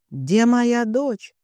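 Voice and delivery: slow, drawn-out, breaking mother's cry; strained, breaking cry. A narrator's reading. Frantic mother bursting in, asking for her daughter, voice breaking. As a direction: let the voice crack as she begs for her daughter. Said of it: "разнёсся надорванный женский голос".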